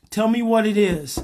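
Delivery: open, insistent request. Acted. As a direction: invite it firmly to speak up. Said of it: "it gets a little louder".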